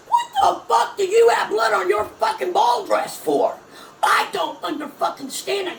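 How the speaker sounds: furious yell, high and loud; angry shout. Real, not acted. Ranting at the singer over the bloody dress, furious shout. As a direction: blast the question at her.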